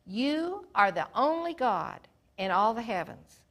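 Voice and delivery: loud, fervent cry to God; king praying aloud before his people, loud and fervent; impassioned prayer. Acted. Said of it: "And he said".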